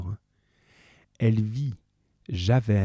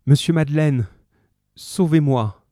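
pleading cry; 5 semitones higher, 5 dB louder than usual. Acted. Fantine begs Madeleine for help.

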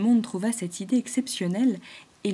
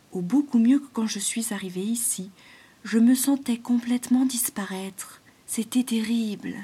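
frightened whisper; shivering with fright; 3 semitones higher, 4 dB louder than usual. Acted. Python tells the animals how he nearly vanished, whispering in fear. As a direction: breathe it out, still shaken by fear. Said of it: "en frémissant d'effroi".

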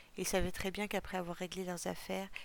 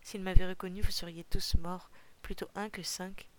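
much louder, booming hard at the start; thundering; 9 dB louder than usual. Acted. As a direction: hammer it home like a thunderclap. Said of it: "tonna le chasseur gris". (tonnerre, beaucoup plus fort)

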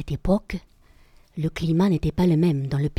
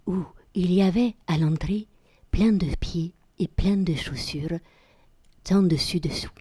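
whispering storyteller; 2 semitones higher than usual. Acted. Storyteller builds suspense.

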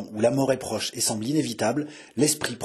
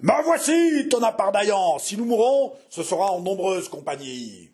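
defiant cry; 7 semitones higher than usual. A narrator's reading. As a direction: answer her boldly over the din. Hero's defiant answer amid danger.

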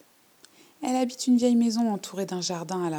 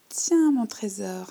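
put-on louder, slow, sugary old-woman offer; rattle-voiced old lady; 3 semitones higher, 6 dB louder, slower than usual. Old lady offers the girl a drink, slow and sugary. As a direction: hand it over like a syrupy old witch. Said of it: "de sa voix de crécelle".

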